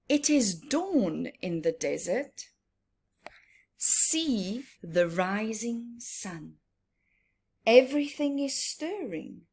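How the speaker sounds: put-on reading to children. Reads the picture book aloud.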